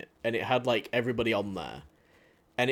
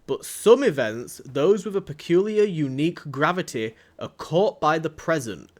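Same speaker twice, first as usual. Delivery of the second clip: put-on Yorkshire accent; 4 dB louder than usual. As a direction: read it grandly in a rough Yorkshire accent. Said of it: "so it's just my awful Yorkshire accent".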